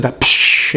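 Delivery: short voiceless psh sound; imitated reverb hiss. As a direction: hiss it like an amp echo. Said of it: "I said".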